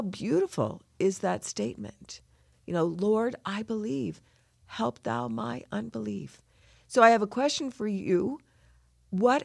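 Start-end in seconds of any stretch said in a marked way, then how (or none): 2.8-6.4 still tearful. Real, not acted. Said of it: "So I'm crying".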